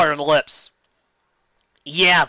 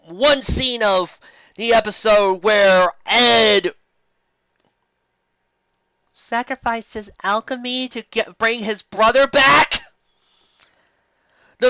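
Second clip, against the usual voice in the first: indignant rant; 3 semitones higher, slower than usual. Real, not acted. Reader fires back at the fanfic in disbelief. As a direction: argue back like an offended fan. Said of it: "outraged fan rebuttal".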